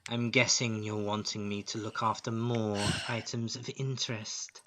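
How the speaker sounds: lightly voiced, sighing monster hostess; measured villainess, building to a hungry threat; menacing spider lady.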